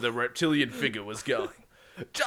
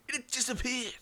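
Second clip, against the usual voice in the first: high-pitched, softer storyteller's reveal; astonished reveal; 10 semitones higher, 6 dB quieter than usual. A narrator's reading. Narrator revealing the alien craft has vanished, astonished. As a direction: lift it high in mock amazement.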